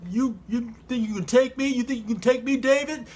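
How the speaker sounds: mock-outraged trash talk; taunting challenge. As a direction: size up your puny challenger. Goliath taunting David before the fight.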